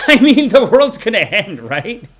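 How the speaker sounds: laughing, high and loud mock doom. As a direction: cackle out the end of the world. Mocking doom while laughing.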